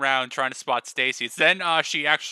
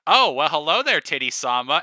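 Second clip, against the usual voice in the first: unsubtle greeting; 6 dB louder than usual. Acted. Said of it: "Master of Subtlety Peyton's just like".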